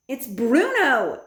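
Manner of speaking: slow, flat-out statement; slow and plain insistence; matter-of-fact. A narrator's reading. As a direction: grandmother naming the mouse slowly. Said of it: "said my grandmother".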